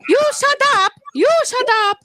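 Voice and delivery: put-on light Indian accent snap. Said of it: "that was just Indian".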